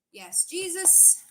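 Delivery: slow, high, stretched-out "yes, Jesus"; drawn-out praise. Pretend. Reader drawls praise back at a viewer's comment. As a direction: sing out the praise lazily like a mock hallelujah. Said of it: "I'm not mocking anything".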